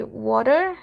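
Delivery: "water" as in American English; American pronunciation. Shown as a demonstration. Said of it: "in American English".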